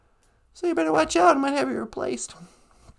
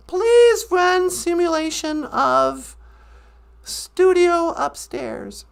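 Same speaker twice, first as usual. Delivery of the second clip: slow formal command; 3 dB louder, slower than usual. Pretend. Formal order to the computer.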